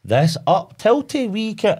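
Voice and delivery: slow, high, floaty fake Scottish accent; mock put-on Scottish accent. Mocking actors who fake a Scottish accent. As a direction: drawl it out in a put-on Scottish lilt. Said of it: "they go".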